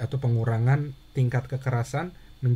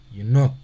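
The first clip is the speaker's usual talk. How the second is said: Yenot with not louder and longer, yi reduced; stress on not; 6 dB louder than usual. Shown as a demonstration. Teacher drilling the stressed second syllable, stress on not. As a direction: hit not in Yenot hard and long. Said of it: "notnya lebih ditekan, lebih keras, lebih panjang".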